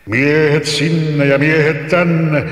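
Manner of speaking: hammed-up giant brushing off the boy; mild mock shout. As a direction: scoff like an angry giant. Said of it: "huusi henki".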